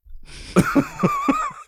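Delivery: a burst of high laughter; real high laugh. Real, not acted. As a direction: break into laughter at the joke. Laughs at own impression.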